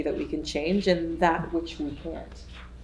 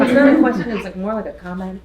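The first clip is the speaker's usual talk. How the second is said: mock lecturer; 3 semitones higher, 8 dB louder, faster than usual. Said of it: "worst thing to hear in a lecture hall".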